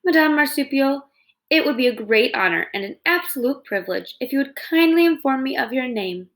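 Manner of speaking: over-polite, stiffly formal courtesy; friendliest voice. Acted. Robot greeting the possum, forced over-the-top friendliness. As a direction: lay the politeness on thick, a robot trying hard. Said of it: "in the friendliest voice she could muster".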